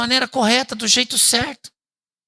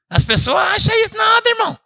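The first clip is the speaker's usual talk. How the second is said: exclaiming; 13 semitones higher, 4 dB louder than usual. Real, not acted. Pastor exclaiming to congregation.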